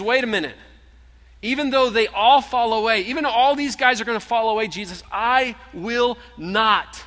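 loud, high insistent vow; bold protest. Acted. Peter loudly vowing to Jesus he won't fall away. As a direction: refuse the warning with full force.

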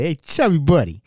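lightly imitated uncle calling out a nickname; uncle's nickname call. Uncle hailing his chunky young nephew, lightly imitated call. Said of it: "That's how he said it".

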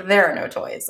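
put-on deadpan repeat of the kid's line; flat and toneless, no lift at all. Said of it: "In this very flat".

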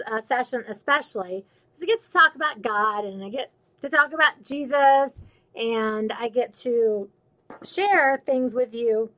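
talking through hiccups; words broken by small hiccups. Real, not acted. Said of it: "I got the hiccups".

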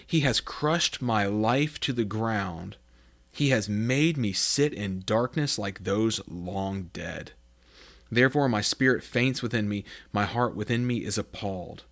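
slow, heavy reading of the lament; lamenting psalm. Acted. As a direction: let the words weigh down. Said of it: "backing up a few verses".

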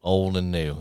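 very slow, loud Southern drawl; Southern cowboy host. Pretend. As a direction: drag it out in a hammed-up Southern accent. Mock Southern podcast intro.

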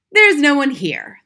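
loud, slow exclamation of relief; great relief. A narrator's reading. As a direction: let relief out loudly and slowly. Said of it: "greatly relieved".

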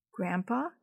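a soft, hushed call to grandpa; softly. A narrator's reading. Boy softly calling grandpa in the stillness, hushed. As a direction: say his name gently into the dark. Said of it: "he said softly".

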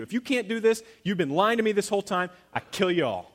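loud, angry royal decree; a grumpy king's loud rage. Acted. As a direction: threaten them all like a furious king. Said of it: "had a terrible temper".

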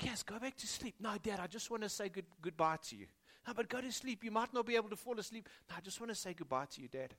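soft, half-whispered early-morning talk; hushed dawn exchange. Retold or imitated. Father hushing his daughter back to sleep, softly. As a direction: voice both sides gently in the dark.

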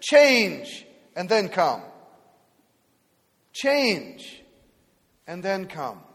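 slow stressed CHANGE; church's demand. Retold or imitated. Church tells people to change first, slow and insistent. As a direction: spell out the condition slowly. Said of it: "We've said".

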